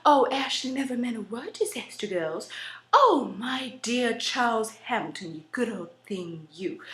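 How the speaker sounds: hammed-up Southern upper-class accent; upper-class South Carolina accent. Shown as a demonstration. Country girl reciting to dear Charles Hampton, South Carolina accent. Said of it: "South Carolina and you're one of those upper class".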